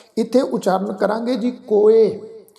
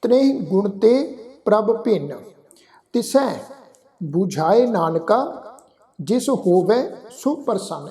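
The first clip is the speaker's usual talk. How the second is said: slow scripture recitation; slower than usual. Shown as a demonstration. Demo recitation of the verse.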